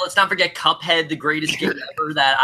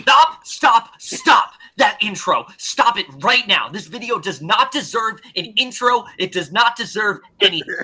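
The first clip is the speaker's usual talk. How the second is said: mock angry reviewer; 3 semitones higher than usual. Angry reviewer rant impression.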